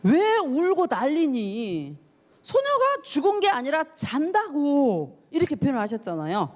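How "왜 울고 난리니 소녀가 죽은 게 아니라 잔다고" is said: gentle rebuke. Retold or imitated. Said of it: "뭐라 그러냐면".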